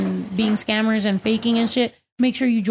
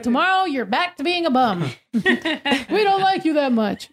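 mock-harsh through laughter; teasing the dog; 4 semitones higher than usual. Owner teasing the dog, laughing. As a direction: tease the dog while laughing. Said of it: "We're like".

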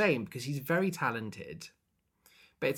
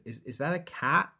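mock puzzled, higher-pitched question; 5 semitones higher, 4 dB louder than usual. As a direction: quote a baffled onlooker. Quoting a puzzled character.

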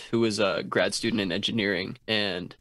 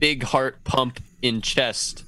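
caveman voice. Acted. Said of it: "You can only talk like cavemen".

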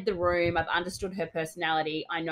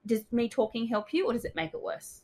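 gentle question; 7 semitones higher than usual. Shown as a demonstration. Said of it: "you need to ask them".

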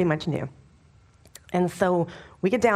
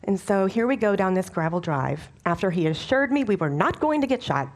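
ordinary talk, nothing marked

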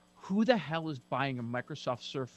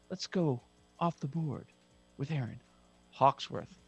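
announcer voice. Shown as a demonstration. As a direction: introduce him like an announcer. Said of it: "I like how you do it with your voice".

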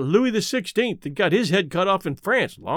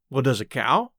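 ordinary delivery

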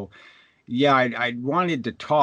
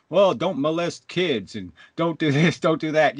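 mock preachy voice; 5 semitones higher than usual. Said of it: "it's one thing to tell me".

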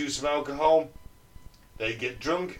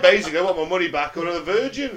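loud, raised complaining customer; indignant demand; 4 semitones higher, 9 dB louder than usual. Retold or imitated. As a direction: demand the refund loudly. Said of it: "And he says".

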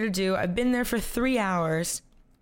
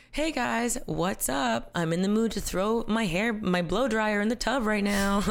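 bubbly influencer voice; 3 semitones higher than usual. Pretend. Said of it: "I'm the most, like".

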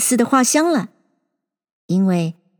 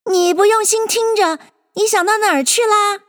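high-pitched stern mouse; severe, high-voiced telling-off; stern scolding; 11 semitones higher than usual. A narrator's reading. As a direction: scold a listener for not paying attention. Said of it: "很严厉的道".

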